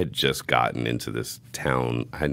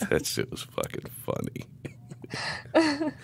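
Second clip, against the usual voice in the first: slow, breathless, squealing laugh-words; wheezing laugh; 9 dB quieter, much slower than usual. Real, not acted. Recalling the tight pants to a friend, wheezing with laughter. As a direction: barely get it out for laughing.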